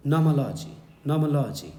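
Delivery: teacher demonstrating how "nomology" is read, syllable by syllable; model pronunciation. Shown as a demonstration. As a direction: say "nomology" carefully as nom-uh-LO-jee. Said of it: "इस style में पढ़ते हैं इसको".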